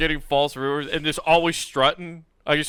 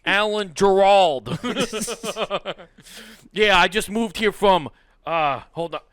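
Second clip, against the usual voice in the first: put-on high, laughing mobster Italian accent; fake Italian accent; 5 semitones higher, 4 dB louder than usual. The fake gangster introduces himself to old neighbors in an Italian accent. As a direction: slip the name out in a hammed-up Italian accent. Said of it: "fake Italian accent".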